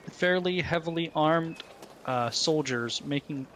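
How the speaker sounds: talking through hiccups. Real, not acted. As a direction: hiccups breaking up the words. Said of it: "excuse me, I got the hiccups".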